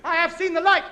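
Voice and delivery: high indignant yell; defiant shout. Acted. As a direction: shout back proudly. Shouting back at neighbour.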